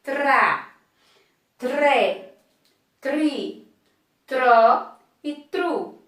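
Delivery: tra, tré, tri, tró, tru slow, each syllable set apart; drilled syllables. Shown as a demonstration. Teacher drilling the TR syllables slowly for the class. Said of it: "som de T mais de R".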